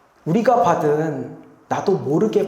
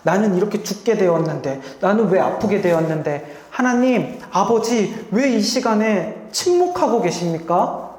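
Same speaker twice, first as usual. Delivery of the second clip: rising, pleading lament; understated anguished plea to God; mild outcry. Retold or imitated. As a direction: cry out to a silent father. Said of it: "울면서 절규하면서 하셨을까?".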